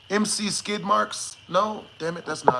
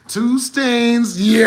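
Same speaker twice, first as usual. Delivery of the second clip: loud laughing call-out; laughing shout; 4 semitones higher, 5 dB louder, much slower than usual. Real, not acted. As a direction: yell it mid-laugh.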